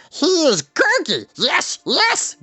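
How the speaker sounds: a small wild beast eagerly announcing himself; excited creature shout. Acted. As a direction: Gurgi shouting his own name proudly. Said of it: "Gurgi shouted".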